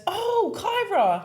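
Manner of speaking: high, slow drawn-out creepy caller. Retold or imitated. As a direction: stretch the name out like a creep. Caller voiced in story.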